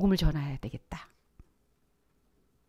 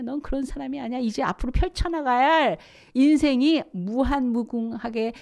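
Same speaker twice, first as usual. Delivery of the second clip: urging outburst; 3 semitones higher than usual. Retold or imitated. Preacher urging a shy believer, rising insistence. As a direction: coax them out, insistent. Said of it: "막 이러는 거예요".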